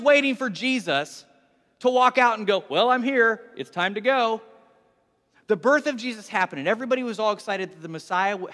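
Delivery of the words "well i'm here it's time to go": louder breezy self-introduction; mock announcement. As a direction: call out your arrival as a matter of course. Mocked arrival announcement repeated.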